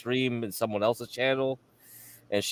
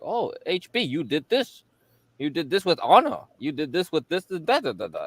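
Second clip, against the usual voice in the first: mocking accusers; 5 semitones higher than usual. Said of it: "They were like".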